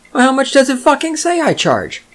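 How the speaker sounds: high-pitched incredulous outburst; exasperated retort. Acted. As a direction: throw the question back in exasperation.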